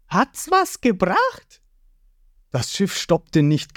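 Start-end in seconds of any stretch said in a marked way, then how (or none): 0.1-1.6 high, slow, cheery cartoon voice; cheerful boy hero. Ruffy asking the crew after firing the cannon, cheery. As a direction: ask proudly, pleased with yourself. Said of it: "Ruffy fragt lachend".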